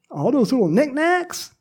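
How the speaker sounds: mock fond. Mocking attachment to knickknacks.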